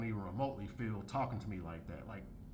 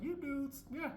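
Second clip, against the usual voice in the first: retold aside; 7 semitones higher, 4 dB quieter than usual. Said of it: "I was like".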